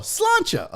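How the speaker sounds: "sláinte" drawn out as SLAHN-chuh; Irish toast pronunciation. Shown as a demonstration. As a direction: say "sláinte" slowly, with a "ch" ending. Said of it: "How do you say that?".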